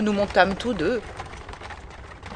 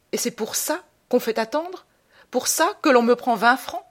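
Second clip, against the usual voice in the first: higher-pitched, hammed-up outrage; theatrical indignation; 5 semitones higher than usual. Patient railing at a dentist who charges twenty francs, indignant. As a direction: protest indignantly, pitch leaping up on the questions.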